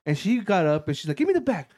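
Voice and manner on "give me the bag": high-pitched imitation of an insistent sister; mock squeal, stretched higher on the repeat; mock demand. Imitating his sister confiscating the spicy snack, high mock demand.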